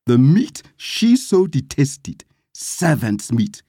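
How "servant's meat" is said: usual speaking voice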